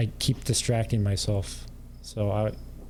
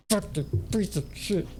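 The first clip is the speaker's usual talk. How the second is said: mock rage; 9 semitones higher, 3 dB quieter than usual. Imitating triggered streamer raging.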